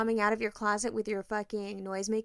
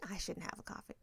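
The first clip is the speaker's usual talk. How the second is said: hushed reluctance; 3 semitones lower, 11 dB quieter than usual. Retold or imitated. Husband declining coffee.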